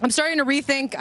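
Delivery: talking through a mouthful of sandwich; chewing while speaking; mouth full. Real, not acted. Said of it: "doing interviews with my mouth full".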